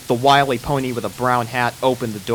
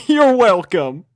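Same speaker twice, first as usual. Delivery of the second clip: laughing; 8 semitones higher, 7 dB louder, slower than usual. A narrator's reading. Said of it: "laugh while saying".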